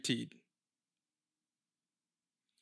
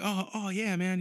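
higher, hesitant imitation of a bashful guy; almost embarrassed; 5 semitones higher than usual. Retired fighter answering an admirer, mildly embarrassed. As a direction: retell a modest star's sheepish reply. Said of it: "almost embarrassed that I recognized him".

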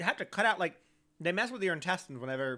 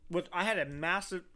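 mouth full; 2 semitones higher than usual. Real, not acted. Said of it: "talking with a almond in my mouth".

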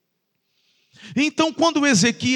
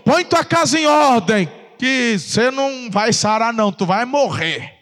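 stern prophet. Retold or imitated. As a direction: deliver the death sentence like a prophet. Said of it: "Aí ele fala".

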